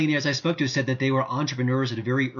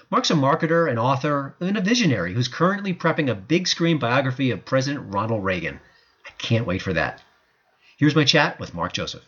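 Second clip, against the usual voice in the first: radio host intro. Acted. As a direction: sell the segment like a radio host. Host's show intro segment.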